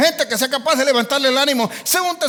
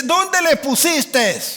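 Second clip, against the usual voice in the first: very slow, higher, each word weighed; deliberate question; 4 semitones higher, much slower than usual. Retold or imitated. Jesus answering Mary's grief with a very slow question. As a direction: drag out the question with firm calm. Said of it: "le dice".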